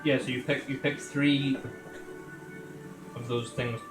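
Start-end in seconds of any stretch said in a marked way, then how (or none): none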